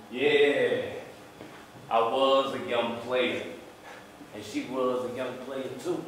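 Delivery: measured, subdued storytelling; spoken-word performance. Acted. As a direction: own up to it quietly.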